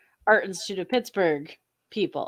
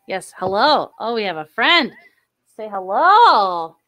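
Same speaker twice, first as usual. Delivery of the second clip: sing-song pet talk; 8 dB louder than usual. Real, not acted. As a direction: coo at the cat. Greeting the cat.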